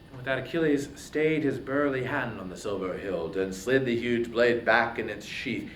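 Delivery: plain reading voice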